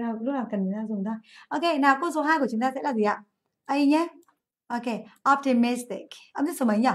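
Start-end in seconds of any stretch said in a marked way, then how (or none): 5.3-6.1 "optimistic" stressed on MIS; stress on third syllable. Shown as a demonstration. Teacher asks class which syllable, "optimistic" stressed on the third. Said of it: "Âm tiết số ba nhỉ".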